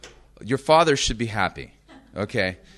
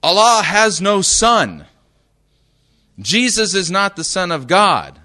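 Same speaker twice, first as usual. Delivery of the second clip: louder, higher, slow insistence; emphatic quote; 6 semitones higher, 7 dB louder than usual. Retold or imitated. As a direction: declare it firmly like a believer correcting you. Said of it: "one of the things they'll tell you".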